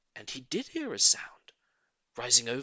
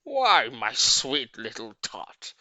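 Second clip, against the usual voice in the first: lying sweetly; 4 dB louder, slower than usual. A narrator's reading. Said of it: "the fake Santa Claus lied".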